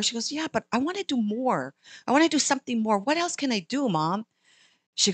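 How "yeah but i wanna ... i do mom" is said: put-on high, earnest child voice; pleading little girl. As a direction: beg mom like an eager child.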